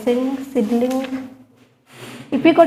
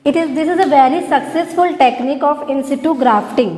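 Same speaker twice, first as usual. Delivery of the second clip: very slow, word-by-word dictation to students; much slower than usual. Shown as a demonstration. Teacher dictating notes to her class, very slow and deliberate. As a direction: spell it out slowly so the class can write it down.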